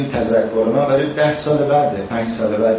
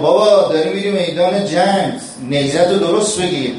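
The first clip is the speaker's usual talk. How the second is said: higher, raised voice calling across the field; mock battlefield call, pitched up; calling out warning; 5 semitones higher than usual. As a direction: shout a warning to the rider going to battle. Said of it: "یه کسی از اون ور داد زد".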